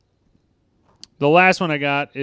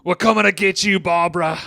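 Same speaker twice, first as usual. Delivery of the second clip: higher, louder mock menace; sing-song zombie-movie taunt; quoting Ed; 5 semitones higher, 4 dB louder than usual. Ed taunting Sean's mom, higher and louder. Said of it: "he's just like".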